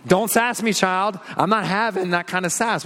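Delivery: hammed-up scolding of a sassy child; scolding parent. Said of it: "your parents said something like that to you".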